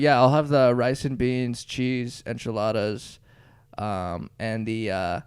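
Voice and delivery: put-on mom switches to a Spanish accent for "pico de gallo"; overpronounced Spanish. Mom orders in English and switches to a Spanish accent. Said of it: "overpronounce it".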